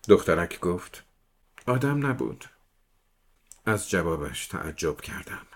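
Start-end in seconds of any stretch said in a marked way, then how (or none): 1.6-2.4 put-on higher, childlike voice; little girl voice. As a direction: speak like a small serious girl. Little girl answers the detective.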